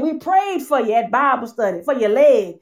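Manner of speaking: lightly voiced church aunt, amused; a hint of a fond older aunt; quoting Aunt Thelma. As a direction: mimic the aunt with a laugh. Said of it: "Aunt Thelma called me and said".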